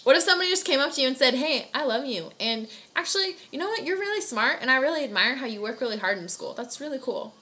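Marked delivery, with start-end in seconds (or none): 1.3-7.3 gushing compliment. Pretend. A friend praising you at school, gushing brightly. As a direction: lift the pitch like you're beaming at them.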